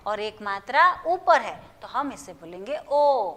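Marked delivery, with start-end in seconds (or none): 2.9-3.3 ओ said like the English letter O; careful model of ओ as "oh"; English-letter sound. Shown as a demonstration. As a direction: give ओ one long "oh" sound. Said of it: "आप English में ओ बोलते".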